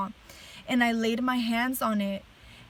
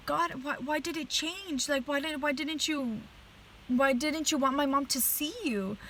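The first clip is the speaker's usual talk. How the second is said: higher, softer retold plea; confused pleading; 4 semitones higher, 3 dB quieter than usual. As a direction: question God in hushed, high-pitched bewilderment. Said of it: "I was just super confused".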